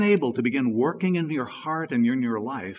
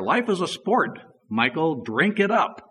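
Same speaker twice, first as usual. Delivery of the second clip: guru exhorting; 5 semitones higher, 4 dB louder than usual. Retold or imitated. Quoting guru to Michael Jordan.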